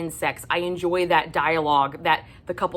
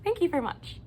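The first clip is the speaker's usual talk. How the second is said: whisper; 11 semitones higher, 6 dB quieter, faster than usual. Pretend. Whispered sarcastic thanks.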